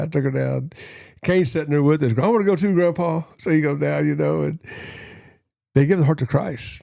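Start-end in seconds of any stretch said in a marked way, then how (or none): 2.2-3.2 put-on a higher little boy's plea; kid voice. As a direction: pitch it up like an eager grandson. Grandson quoted asking.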